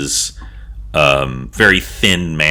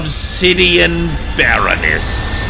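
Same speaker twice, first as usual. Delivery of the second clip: high, drawn-out herald's announcement; obsequious loud herald; 10 semitones higher, slower than usual. Acted. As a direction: draw out the title in a high, fawning call. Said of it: "in a very obsequious, loud voice".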